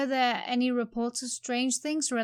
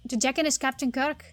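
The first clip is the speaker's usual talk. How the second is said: effusive Cockney bobby; Cockney accent; 3 semitones higher than usual. Acted. Constable thanking the man who trusted him, Cockney accent. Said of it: "This Cockney rhyming slang is outrageous".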